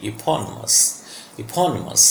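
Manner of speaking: eponymous with a short, weak i after PON; small i sound. Shown as a demonstration. Teacher demonstrates the small sound, eponymous with a short middle i. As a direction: say eponymous as i-PON-i-mus, barely touching the middle i. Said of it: "ये small sound है ई की".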